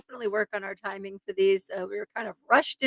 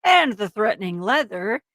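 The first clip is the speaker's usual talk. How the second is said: dramatic true-crime narration; story narration; 5 dB louder than usual. A narrator's reading. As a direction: read it as a suspenseful crime story. Reads the case story aloud.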